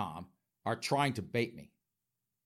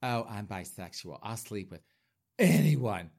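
mock coy; 3 semitones lower than usual. Host mocking bisexual men as coy, in a hammed-up coy voice. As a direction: play it falsely shy, then let "anyone" pop out. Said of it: "I don't run around all coy going".

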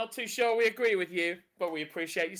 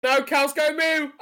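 punchline; 6 semitones higher, 7 dB louder, slower than usual. Acted. Punchline of knock-knock joke.

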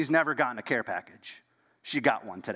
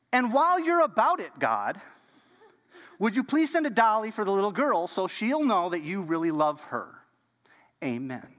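put-on high, eager little girl asking for more; child's bold prayer; 5 semitones higher than usual. Ruth adding a doll to her prayer, high and eager. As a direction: pile on the requests like a confident child. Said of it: "And she wasn't done".

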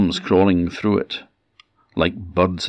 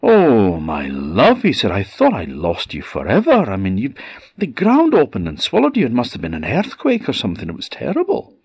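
overjoyed and shaken; husband greets his lost wife, relieved; 3 semitones higher than usual. Acted.

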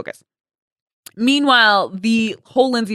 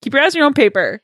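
higher, firm motherly telling-off; scolding mom; 5 semitones higher, faster than usual. Retold or imitated. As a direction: lay down the law like a parent. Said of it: "my mom would be like".

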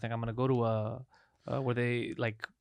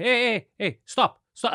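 higher, sharper mock protest; retold angry protest; 7 semitones higher, 3 dB louder, slower than usual. Customer stopping a waiter who brings the bill too early, higher mock anger. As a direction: cut the waiter off, fed up. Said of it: "I would get super mad".

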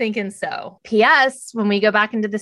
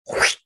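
swish sound. Retold or imitated. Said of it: "there's a swish sound".

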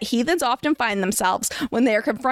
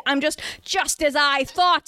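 slow, knowing wizard's line; lightly voiced wise Dumbledore; 4 semitones higher than usual. A narrator's reading. Dumbledore sure he has caught the heretic, slow and knowing. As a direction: savor it like a wise old headmaster. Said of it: "Dumbledore surmised wisely".

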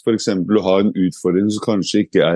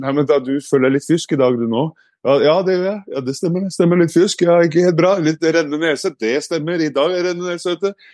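inner excuse voice; 6 semitones higher than usual. Retold or imitated. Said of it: "det er en stemme sin".

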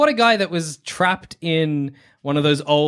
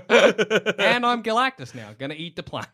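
chuckling through the words; laughing; 4 semitones higher than usual. Real, not acted. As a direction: say it while laughing. Laughing while telling.

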